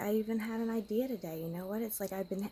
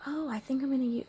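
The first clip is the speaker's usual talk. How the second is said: whispered self-quote; 5 semitones higher, faster than usual. Retold or imitated. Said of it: "was like".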